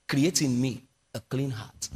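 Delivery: quiet, pleading prayer voice; soft prayerful plea. Retold or imitated. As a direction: pray it softly, like David. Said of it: "He said".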